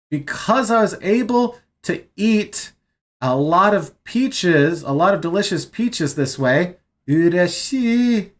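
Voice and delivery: translating in an excited voice; gushing delight. Shown as a demonstration. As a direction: gush about the peaches. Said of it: "sound like you are frothing at the mouth".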